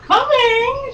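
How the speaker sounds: high, loud call toward the door. A narrator's reading. Heroine calls to the knocking visitor, high and loud. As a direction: call it out across the room. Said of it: "she called out".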